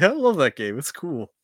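mock-bored "I love that game"; mock apathetic. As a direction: imitate yourself sounding uninterested. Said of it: "It's like".

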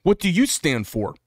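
rapid indignant challenge; angry confrontation. Retold or imitated. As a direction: confront the friend hotly. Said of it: "I say".

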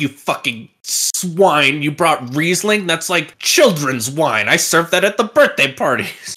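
slow, disdainful sommelier scorn; lightly voiced contemptuous snob; snobby wine expert. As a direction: sneer at the Riesling like it's juice. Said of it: "And the guy's like".

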